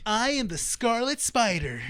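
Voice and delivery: slow, drawn-out hero announcement; mock-dramatic superhero intro, stretched out; hammy slow declaration; overdramatic superhero. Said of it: "want him to be over dramatic".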